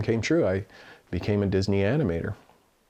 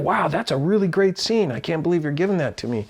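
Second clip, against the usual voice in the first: higher-pitched wowed reaction, re-enacted; excited; 6 semitones higher than usual. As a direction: marvel at being handed a great chance. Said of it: "I was just excited".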